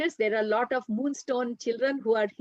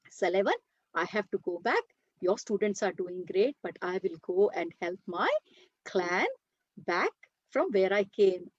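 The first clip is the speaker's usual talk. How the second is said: calm resolve; 4 semitones lower than usual. Acted. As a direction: state it gently but firmly. Jonathan calmly explains his decision.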